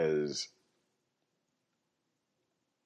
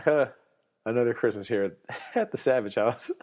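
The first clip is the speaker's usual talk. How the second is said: sarcastic; 4 semitones higher, 4 dB louder than usual. Retold or imitated. Sarcastic family Christmas line.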